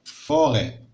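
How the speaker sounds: لا فوري said slowly and clearly; slow dictation. Shown as a demonstration. Teacher dictating to pupils, slowly. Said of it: "لا فوري".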